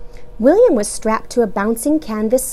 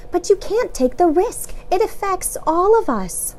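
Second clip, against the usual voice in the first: soothing mother; 10 semitones higher than usual. A narrator's reading. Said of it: "Mama added soothingly".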